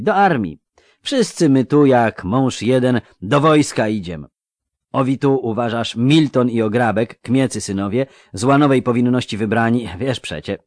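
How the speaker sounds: eager country lad voice; rustic young recruit. Acted. Melfi, rustic recruit speaking.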